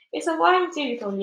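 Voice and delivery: high, loud alarmed yell. A narrator's reading. Fire chief yells at the centipede in alarm. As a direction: shout the name in fear. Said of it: "yelled the head of the fire department".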